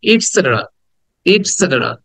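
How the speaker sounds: ইটসেটেরা run together as one short word; quick, short sounds. Shown as a demonstration. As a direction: say ইটসেটেরা briskly, with a short "it" start. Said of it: "এটাকে দ্রুত বলতে হবে".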